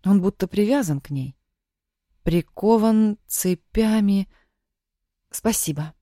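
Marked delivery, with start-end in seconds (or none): 5.3-5.9 grateful thanks. Acted. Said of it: "поблагодарила она подругу".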